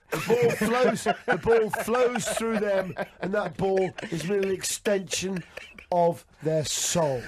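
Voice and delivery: slow, grand, reverent build; mock-epic tribute. Host hyping a guest with mock-epic reverence. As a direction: hail him like a legend, drawn out.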